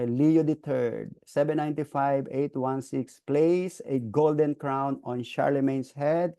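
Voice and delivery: ordinary delivery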